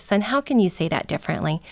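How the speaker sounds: calm, patient correction; gentle, smiling voice. Acted. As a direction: ask it kindly, with a slight smile. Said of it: "a gentle smile even on my face".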